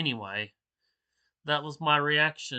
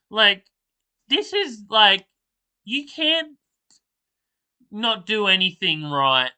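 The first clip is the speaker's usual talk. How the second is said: exasperated; 7 semitones higher, 4 dB louder than usual. Real, not acted. Ranting at the video's plot, high exasperated squeak. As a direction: pitch jumps way up in disbelief.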